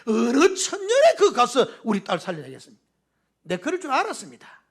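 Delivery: whining at the Lord in thick Gyeongsang speech, half laughing; Gyeongsang dialect. Retold or imitated. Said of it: "우리 경상도 말로".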